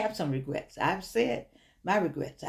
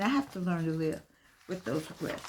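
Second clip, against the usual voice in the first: softer and more personal, fading out at the end; a quiet, sincere confession; quiet personal admission; 2 semitones lower, 5 dB quieter than usual. Real, not acted. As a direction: say it to yourself, letting it trail off. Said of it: "Me".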